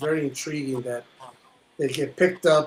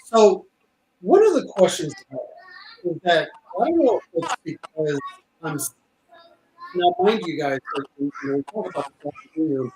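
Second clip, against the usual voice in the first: bad connection. Real, not acted. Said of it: "your mic is cutting".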